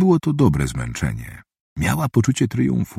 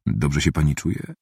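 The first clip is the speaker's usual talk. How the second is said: z troską; 5 semitones lower, 6 dB quieter than usual. A narrator's reading. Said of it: "zapytał z nagłą troską detektyw".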